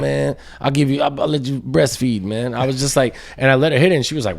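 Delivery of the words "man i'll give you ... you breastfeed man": lightly voiced pleading addict; crackhead impression. Child imitating mom begging a hit, crackhead manner. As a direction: wheedle like a crackhead, a bit higher. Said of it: "crackhead, like, interaction".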